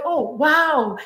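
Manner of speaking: delighted native speaker, pitched high and quick; happy, excited. Acted. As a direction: gush with joy that someone is trying your language. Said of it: "you'll be so happy, so excited".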